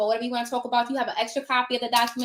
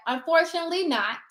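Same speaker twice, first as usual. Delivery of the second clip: said nicely. Retold or imitated. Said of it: "But I said it nicely".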